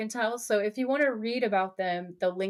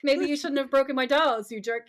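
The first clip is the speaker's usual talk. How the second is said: higher-pitched mock taunt; gloating sister; 5 semitones higher than usual. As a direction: gloat like a sister getting even. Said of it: "where the sister is like".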